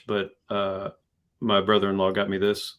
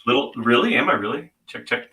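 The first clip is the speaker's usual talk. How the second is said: through a tube; 3 semitones higher, 4 dB louder than usual. Real, not acted. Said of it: "you're speaking a mile away".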